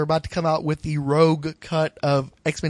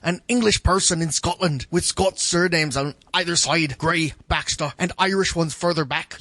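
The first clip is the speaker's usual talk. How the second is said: put-on Scottish accent. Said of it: "I'm trying to think of a Scottish accent".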